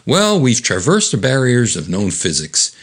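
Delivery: a hint of know-it-all, slightly lifted; lightly voiced brainy lecturer. Diane explains the teleport to Chris, lightly acted know-it-all. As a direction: lightly act a smart woman explaining science. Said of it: "of course, Diane's very smart".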